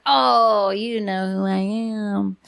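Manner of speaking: drawn-out acted "oh", easing off slowly; imagined chance greeting. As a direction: play a casual run-in, stretching the words. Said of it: "and then you're like".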